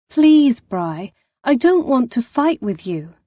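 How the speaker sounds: urgent plea. Acted. Begging her sister through door.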